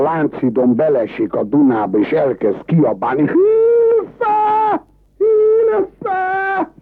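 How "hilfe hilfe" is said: high, desperate cry for help; calling for help. Acted. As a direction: yell it like you're drowning. Drowning tourist calls out. (magas, kétségbeesett segélykiáltás)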